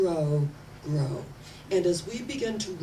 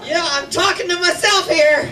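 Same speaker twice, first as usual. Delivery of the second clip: louder, higher, laughing through words; laughing aside; 11 semitones higher, 12 dB louder than usual. Real, not acted. Preacher admitting to congregation he talks to himself, laughing. Still laughing after joke.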